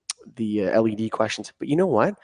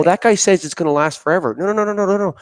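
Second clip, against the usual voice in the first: higher, louder mock dispute; acted objection; 9 semitones higher, 5 dB louder than usual. Lighting society member objecting at the table, acted protest. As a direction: lightly act out cutting off a bold claim.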